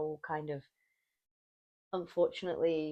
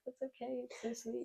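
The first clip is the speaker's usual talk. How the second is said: soft, high imitated reassurance; soothing client; 6 semitones higher, 10 dB quieter than usual. Imitated client comforting crying receptionist, soft soothing. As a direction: coo it gently, as a touched client. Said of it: "they're just like".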